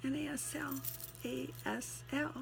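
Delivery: strained, fading voice; tired hoarse voice; losing voice. Real, not acted. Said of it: "I'm losing my voice".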